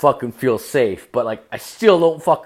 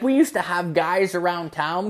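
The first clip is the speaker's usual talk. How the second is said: higher-pitched imitation of a mother; mock mom voice; 7 semitones higher than usual. Mom recalling town's men to son, mock mom voice.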